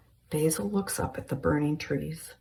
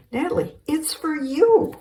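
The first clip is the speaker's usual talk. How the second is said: high loud call; 11 semitones higher, 6 dB louder than usual. Acted. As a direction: call her from the other room. Carol repeats shouting to daughter.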